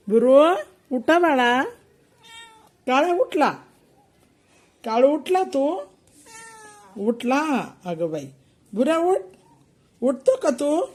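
cooing pet talk. Real, not acted. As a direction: coax the sleeping kitten awake sweetly.

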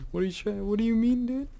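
high, rising disbelief; incredulous. Real, not acted. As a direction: question it with climbing pitch. Baffled protest at other player.

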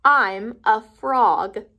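slow, deadpan declaration; matter-of-fact pig. Acted. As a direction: announce it like it's obvious. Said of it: "Piggy says".

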